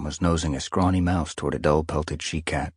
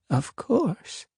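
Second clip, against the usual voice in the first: ancient she-cat. Acted. Ancient she-cat Stoneteller speaks.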